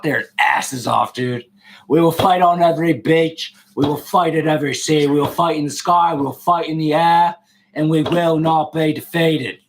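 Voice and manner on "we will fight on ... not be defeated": lightly voiced British wartime orator; measured mock British speech, slowing to the close; Churchill. Streamer quoting a wartime speech to the group, lightly put-on British statesman. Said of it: "Churchill, baby".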